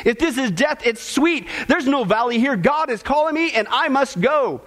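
lifted, awed voice of a dying saint; lightly voiced dying Moody, awestruck; dying man's rapture. Preacher voicing a dying man seeing heaven, awed.

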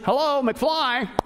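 slow, drawn-out mock "Hello, McFly"; sarcastic. Paul mocking the confused church, slow and sarcastic. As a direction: tease them like they missed the obvious. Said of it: "I love Paul's sarcasm there".

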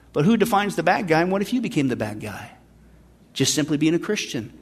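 quiet, grave question to the congregation; sobering warning. Real, not acted. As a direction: drop low and soft after the mockery. Sobering warning after mocking quote.

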